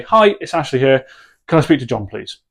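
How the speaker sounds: short, firm, matter-of-fact ask; direct phone request. Shown as a demonstration. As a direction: say it and leave silence. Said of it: "And you're gonna say".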